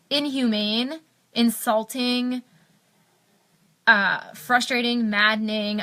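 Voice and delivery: real frustration, words spaced by heavy pauses; upset, exasperated. Real, not acted. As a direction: let each damning word out slowly, upset. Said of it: "I'm so upset by it".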